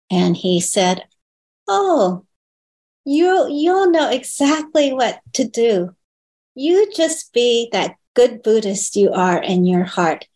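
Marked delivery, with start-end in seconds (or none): 1.7-10.3 raised, kindly imitation of her teacher; a mild, higher echo of the teacher's encouragement; gentle teacher. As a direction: reassure her the way a kind teacher would. Teacher reassuring her about caring for mother.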